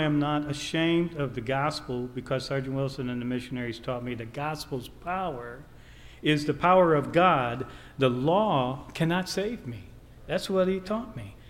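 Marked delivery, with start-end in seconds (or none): 4.1-11.4 high-pitched, insistent sermon delivery; emphatic preaching. Real, not acted. Preacher telling what the missionaries taught him, emphatic preaching. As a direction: drive the point home to the congregation.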